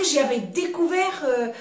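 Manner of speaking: ordinary delivery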